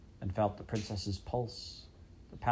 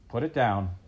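commanding; 5 dB louder than usual. Acted. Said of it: "the king commanded".

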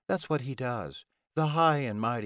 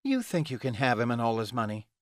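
mildly snarled, higher-pitched warning; snarling; 4 semitones higher than usual. Acted. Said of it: "Ilona snarled at her".

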